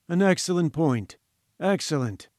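mildly patronizing praise, falling. Acted. Professor condescending to the reporter's point, mildly patronizing. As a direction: pat him on the head with the word. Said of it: "with a huge air of patronage".

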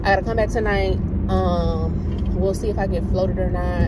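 talking around a retainer; slightly muffled retainer speech; wearing a retainer. Real, not acted. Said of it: "excuse me if I'm talking like this, 'cause I got my retainer in".

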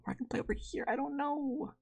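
unvoiced near-whisper musing. Real, not acted. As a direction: breathe it to yourself. Sudden drop to whisper.

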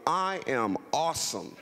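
slow, laid-back LA swagger; LA style. Shown as a demonstration. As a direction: say it like a cool Los Angeles local. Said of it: "And say it like you're from L A".

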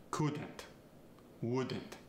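Couldn't, wouldn't said forward in the mouth, not nasal; Farsi accent. Shown as a demonstration. Coach demonstrating a Farsi accent, couldn't and wouldn't kept forward. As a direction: Farsi accent, tongue heavy and resonance forward. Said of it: "Keep that resonance forward and in the mouth".

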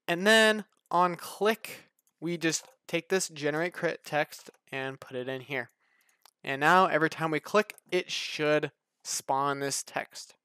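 speech a bit off from retainers; talking with retainers in; wearing a retainer. Real, not acted. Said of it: "I have my retainers in currently".

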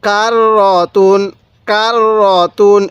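"কার র তুন" slowly, with a long held r; slow teaching recitation of "কার র তুন"; doubled r. Shown as a demonstration. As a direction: hold the r joining "কার" to "র", then "তুন". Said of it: "এরকমভাবে শিখব".

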